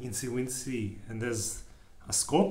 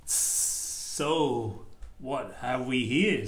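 sly snake; much slower than usual. Acted. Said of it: "hissed wickedly".

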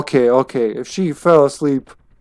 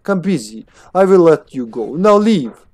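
put-on dismissive German-accented scientist; attempted German accent; 3 semitones higher than usual. Busy scientist sending visitor away, German accent. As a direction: send them off in a German accent. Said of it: "supposed to have a German accent".

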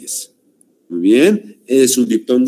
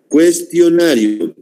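"Cuestionario" slow and raised, each syllable sounded out; drawn-out syllables; 4 semitones higher than usual. Shown as a demonstration. Teacher showing the class the diphthongs, "Cuestionario" slowly syllable by syllable. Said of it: "Vamos a separar".

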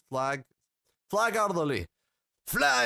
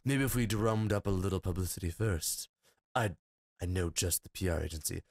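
lightly lowered dragon voice; 5 semitones lower than usual. Acted. Player voicing Draggy, lightly lower. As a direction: play the dragon friend a little lower. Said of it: "on a dragon voice".

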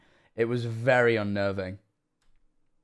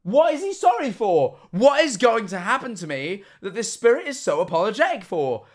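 high, loud, incredulous questioning; stretched-out, high-pitched alarm; panicked rant; 11 semitones higher, 5 dB louder than usual. Real, not acted. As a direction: wail each question in mounting panic. Ranting in mock panic about ghost.

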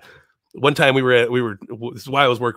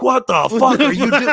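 retold shock; 11 semitones higher, 6 dB louder than usual. Shocked reply to Honky Tonk.

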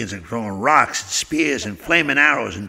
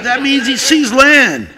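first mate; 9 semitones higher, 6 dB louder, slower than usual. Acted. First mate explaining, put-on voice.

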